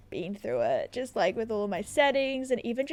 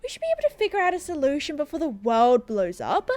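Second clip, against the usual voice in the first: higher-pitched, urgent reassurance; calming druid; 8 semitones higher, 3 dB louder than usual. Acted. Cassandra telling the councilman to relax, urgently reassuring. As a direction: settle a panicking official, then urge haste.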